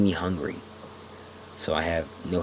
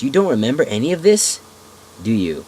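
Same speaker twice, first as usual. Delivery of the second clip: put-on old man voice; 5 semitones higher, 8 dB louder than usual. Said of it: "he asks me".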